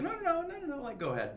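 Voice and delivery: high-pitched, very nice encouragement; imitated kindly reassurance. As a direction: imitate a kind casting director urging you on. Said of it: "being very nice".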